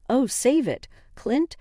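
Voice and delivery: angry. Acted. Wife confronts cheating husband.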